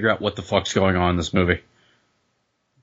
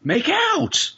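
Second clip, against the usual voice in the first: high excited yell; excited shout. Real, not acted. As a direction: cheer at the screen. Cheering on screen.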